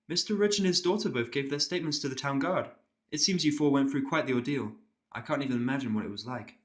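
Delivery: a careful, apologetic pony nurse. Acted.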